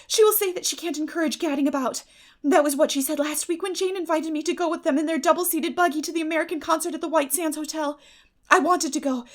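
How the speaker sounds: lightly voiced eager girl; lightly voiced Anne. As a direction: gush lightly over the evening. Anne's voice held.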